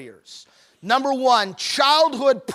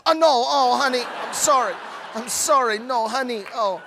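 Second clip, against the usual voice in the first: hammed-up sympathy. Husband overplaying sympathy to his wife, hammed-up. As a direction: overdo the consoling husband for laughs. Overdone comforting, audience laughs.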